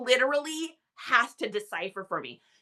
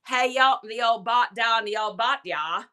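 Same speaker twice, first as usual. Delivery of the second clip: lightly voiced old-school Vermont drawl, garbled words; imitated Vermont drawl. Wife imitating husband's uncle on the porch, thick Vermont drawl. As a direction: imitate an unintelligible Southern-Boston-tinged Vermont drawl. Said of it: "literally, this is how he talks".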